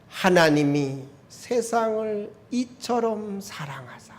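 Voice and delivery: a hint of tears in a slow, hushed recitation; mild tearful reading. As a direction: read the verse slowly, as if choking up a little. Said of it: "할 때 막 눈물이 막 흘러요".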